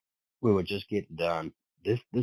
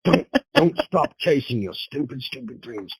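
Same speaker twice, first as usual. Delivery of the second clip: mock pep talk; 7 semitones higher, 6 dB louder than usual. Mock motivational slogan.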